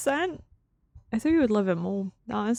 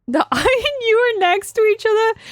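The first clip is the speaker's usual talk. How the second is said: higher, louder, laughing through it; laughing question; 10 semitones higher, 5 dB louder than usual. Real, not acted. Streamer amused by the game, laughing question. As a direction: laugh while asking, amused.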